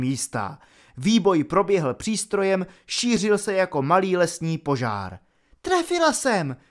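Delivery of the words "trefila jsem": high, triumphant cry. A narrator's reading. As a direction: shout it at the screen. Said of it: "křikla na opalin obraz". (vysoký vítězný výkřik)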